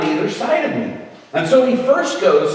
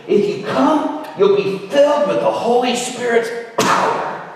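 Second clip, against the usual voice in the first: lightly mocked revival preacher, pitched up; fired-up preacher; 6 semitones higher than usual. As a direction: imitate a preacher building to the word power. Imitates fired-up preacher promising power.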